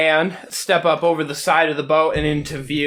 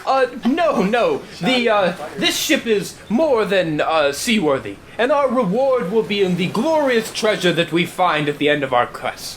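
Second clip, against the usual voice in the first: posh captain; 4 semitones higher than usual. Acted. GM voicing the captain.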